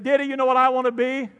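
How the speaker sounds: a hint of an eager little boy; imitating a little boy. Pastor voicing his great-grandson's question, lightly childlike.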